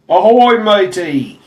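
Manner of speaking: loud high pirate shout; hammed-up pirate greeting. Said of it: "Make me sound like a pirate".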